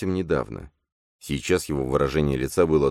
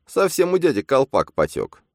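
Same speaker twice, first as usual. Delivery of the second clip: much higher, louder sneering imp; a shrill inner double mocking; 11 semitones higher, 5 dB louder than usual. A narrator's reading. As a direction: butt in with a jeer. Phantom voice.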